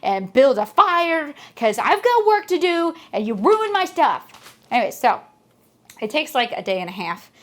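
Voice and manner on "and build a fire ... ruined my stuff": higher-pitched, mildly exasperated mock scolding; irritated ordering. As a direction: hand out chores as the aggrieved hermit. Angry hermit orders the culprit about.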